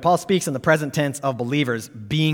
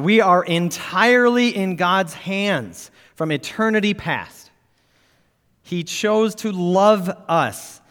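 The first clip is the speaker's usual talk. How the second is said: raised, forceful pulpit reading; emphatic quote reading; 6 semitones higher, slower than usual. Acted. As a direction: declaim the quotation to a congregation. Reads a quotation emphatically to congregation.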